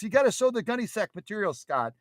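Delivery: high-pitched fan pleading; insistent viewer. Acted. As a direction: urge it in an acted fan voice.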